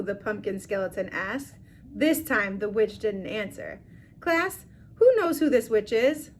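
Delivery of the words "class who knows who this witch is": strange high voice. Acted. Skeleton asks the class.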